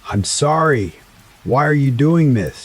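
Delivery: high, tearful, voice cracking; voice breaking. A narrator's reading. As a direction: plead through tears, voice breaking. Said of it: "she cried, her voice breaking".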